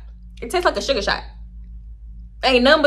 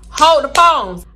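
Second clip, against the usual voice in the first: excited alarm; 5 semitones higher, 7 dB louder, slower than usual. Retold or imitated. Shocked realization.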